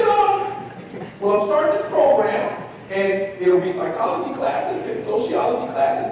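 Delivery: high-pitched impression of the professor pitching a program; Doctor Scott's voice. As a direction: explain the program like a gentle earnest academic. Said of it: "That's how he talked".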